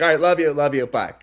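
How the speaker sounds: automatic phone sign-off; rote. Retold or imitated. Family ending a phone call, rote. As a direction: rattle it off without thinking. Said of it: "it's so rote".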